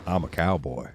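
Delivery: low, muted mock Southern cowboy accent; bad cowboy accent. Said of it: "whatever accent he was doing".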